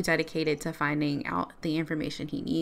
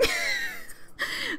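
a breathy giggle way up high; real giggle; high squealing laugh; 7 dB quieter than usual. Real, not acted. Laughing at his digging.

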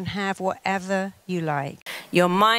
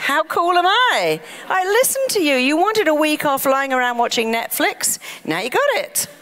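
the mind, boasting; 8 semitones higher, faster than usual. Acted. The mind brags to its owner about the flu, high and smug. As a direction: crow like a proud inner voice that granted a wish. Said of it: "Your mind goes".

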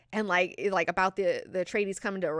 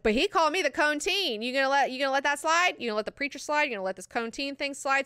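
raised, quick mock protest; indignant challenge; 5 semitones higher, faster than usual. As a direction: demand an answer, piling up the questions. Acted daughter challenging her mother.

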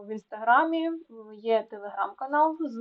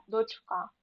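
дочКА, final syllable punched; дочка with strong final stress; stress on last syllable; 5 dB quieter than usual. Shown as a demonstration. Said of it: "наголос на останній склад".

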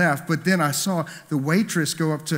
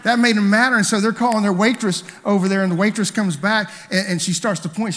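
louder, higher, pushing the story forward; rising story intensity; 6 semitones higher, 7 dB louder than usual. Real, not acted. Preacher telling the congregation how the ladies got madder, emphatic. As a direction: drive the punchline home.

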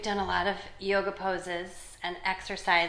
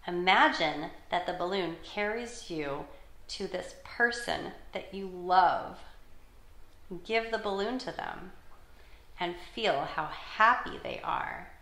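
calm, measured imagery reading with pauses; guided meditation for children. Acted. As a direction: guide them gently through breathing and imagining.

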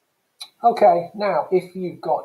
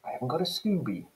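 fast, higher Cockney voice for the slang; 6 semitones higher, 7 dB quieter, faster than usual. Shown as a demonstration. Teacher demoing Cockney slang to the class, in a quick high Cockney voice. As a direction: rattle it off like a cheeky Londoner.

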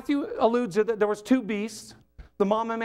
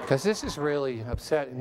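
mock-mild upset; 5 semitones lower than usual. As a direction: voice mild upset far too politely. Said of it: "No, that's not what it says".

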